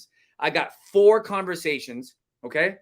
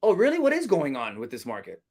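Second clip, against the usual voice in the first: squeaky upswing. Shown as a demonstration. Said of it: "Sounding like a squeaky mouse, a, an upswing".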